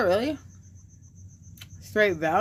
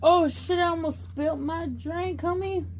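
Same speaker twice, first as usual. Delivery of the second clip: high, surprised outburst; startled; 9 semitones higher than usual. Real, not acted. Nearly spilling her drink, a real high startled yelp.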